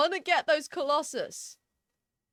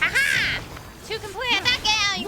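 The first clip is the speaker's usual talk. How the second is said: a bit higher, gleeful; Paimon voice; 4 semitones higher, 4 dB louder than usual. Pretend. Streamer as Paimon celebrating a win, higher cheery voice. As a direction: cheer it out as the little companion. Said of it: "This is a really fun voice to do".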